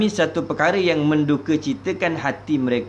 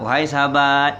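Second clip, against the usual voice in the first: gentle low intonation. Shown as a demonstration. Teacher showing how to greet a friend nicely, gentle low intonation. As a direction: address a friend gently, without raising the pitch. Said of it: "intonasi yang rendah".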